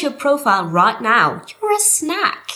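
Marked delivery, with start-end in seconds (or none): 1.6-2.5 playful hype. Acted. Flirty hype compliment.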